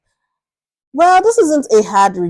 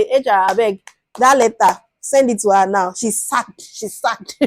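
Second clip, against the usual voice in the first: angry boss. Retold or imitated. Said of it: "You just say".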